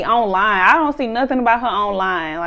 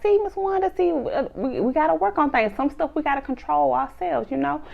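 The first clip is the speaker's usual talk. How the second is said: softer, higher imitation of a peacemaker; calming; 4 semitones higher, 5 dB quieter than usual. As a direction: gently talk her down, as retold. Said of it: "trying to calm Miss Wanda down".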